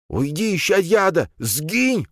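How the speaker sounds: put-on high, frantic old priest voice; alarmed banishing cry. A narrator's reading. Old priest drives the spider away, alarmed cry.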